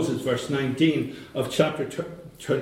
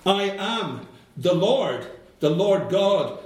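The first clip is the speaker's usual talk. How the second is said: mildly proclaimed, pitch lifted on the opening words; retold proclamation; 5 semitones higher, slower than usual. Preacher voicing God declaring himself to Moses, mildly proclaiming. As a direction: imitate a crying-out with measured, higher-pitched declaration. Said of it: "he cried out with a loud voice".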